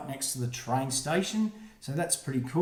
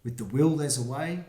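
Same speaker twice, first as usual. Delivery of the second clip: put-on reading to children; 2 semitones lower than usual. Reads rhyming picture book aloud.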